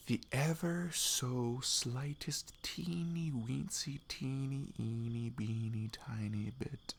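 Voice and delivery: slow, bashful whisper, shrinking the words; a coy, drawn-out whisper downplaying the feeling; shy whisper. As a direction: tiptoe through it in a slow whisper, embarrassed.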